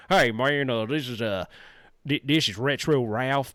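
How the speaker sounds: lightly put-on cowboy host greeting; a hint of cowboy character, drawn out at the end; Cowboy Retro Ralph. Streamer demonstrating his character voice for viewers, light cowboy voice. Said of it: "that's kinda like Cowboy Retro Ralph".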